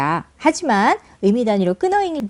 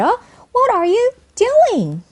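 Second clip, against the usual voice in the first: high, slow question, "doing" rising then falling; rise then drop; 11 semitones higher, much slower than usual. Shown as a demonstration. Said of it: "이렇게 끊고 이렇게 억양을".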